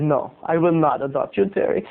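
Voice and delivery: lightly imitated El Salvadorian accent. Friend's mother refusing to adopt him, light El Salvadorian accent. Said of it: "she said in her El Salvadorian accent".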